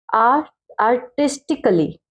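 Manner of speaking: slow, sound it out syllable by syllable; धीरे-धीरे तोड़कर बोलना; careful slow spelling-out. Shown as a demonstration. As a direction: break it apart slowly. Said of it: "इसको हम कैसे पढ़ेंगे?".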